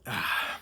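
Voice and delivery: wordless exhaled sigh; heavy sigh. Real, not acted. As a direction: let out a long breath. Sighing over a tough scene.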